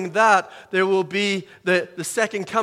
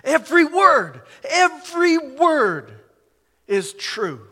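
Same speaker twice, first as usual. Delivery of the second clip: much higher and louder, slow on the second; fervent climax; 8 semitones higher, 5 dB louder, slower than usual. Real, not acted. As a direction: cry it out in rising fervour.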